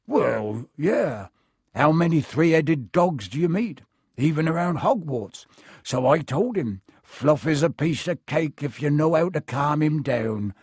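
rambling, recalling a card game; casual boast from a storytelling groundskeeper; lightly voiced Hagrid. Hagrid keeps boasting of Fluffy.

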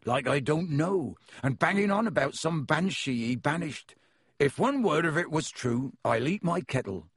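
a friendly giant welcoming guests in; half-giant host greeting visitors at the door; Hagrid voice. Acted. Hagrid scoffing at Lockhart.

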